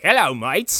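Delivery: lightly put-on Australian greeting; a hint of mock Australian; Australian accent. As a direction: greet them as a matey Australian. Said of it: "if Australians stepped out, he'd be like".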